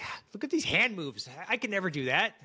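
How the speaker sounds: high, swooping mock amazement; awed, daunted. Host voices singer watching a star's dance video, mock awe.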